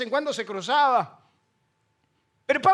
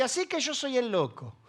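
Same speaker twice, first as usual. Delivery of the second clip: quiet indignant retort; 6 dB quieter than usual. Acted. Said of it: "Entonces Pablo recibe y dice".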